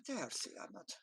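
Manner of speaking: gently pet and soothe the cat; cooing to a kitty. Acted.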